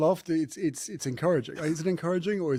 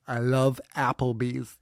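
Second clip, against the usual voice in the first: American accent; slower than usual. Shown as a demonstration. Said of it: "really emphasize the A".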